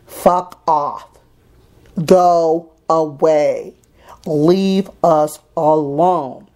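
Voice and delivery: emphatic slow dismissal. Retold or imitated. Telling the social workers to leave, very slow and firm. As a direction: drag it out, each word spaced and heavy. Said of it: "The reason I did that was to say".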